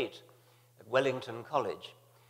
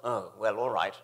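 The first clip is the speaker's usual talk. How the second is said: reluctant consent. Retold or imitated. Reluctantly gives in to producer.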